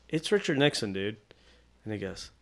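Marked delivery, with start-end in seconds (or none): 0.1-1.2 softened, tentative correction; careful politeness. Retold or imitated. Artist not wanting to alienate anybody, gently polite. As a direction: break it gently, a little softer. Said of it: "I'm trying to be really polite about it".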